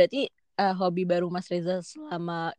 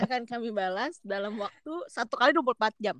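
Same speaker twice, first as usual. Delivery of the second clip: laughing through a scripted reply; mock polite admin, giggling; customer service voice; faster than usual. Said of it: "auto reply dia". (suara customer service sambil tertawa)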